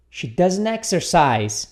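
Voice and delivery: She doesn't exercise said again, somewhat slowly; slow model. Shown as a demonstration. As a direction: repeat it steadily for the class. (repetição modelo um pouco lenta)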